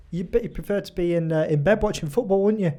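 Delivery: lightly attempted mock Scouse; a hint of Liverpudlian salesman; Liverpudlian accent. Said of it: "I can't really do a Liverpudlian accent".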